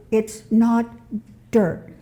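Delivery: slow, drawn-out correction on soil; firm correction. Retold or imitated. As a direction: set them straight slowly, leaning on soil. Correcting mums about dirt.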